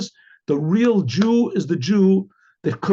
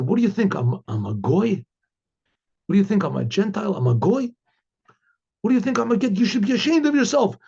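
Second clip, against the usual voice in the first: retold indignant yelling; 4 semitones higher, faster than usual. Customer scolding the restaurant owner, in mock indignant outrage. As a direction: play the offended customer, climbing in pitch. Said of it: "the guy started screaming and yelling".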